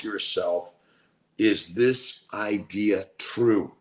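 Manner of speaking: measured teaching read, deliberate phrase breaks; reading aloud. Real, not acted. Streamer reading self-observation teaching to viewers, measured read-aloud. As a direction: read it out as a lesson, leaning on key words.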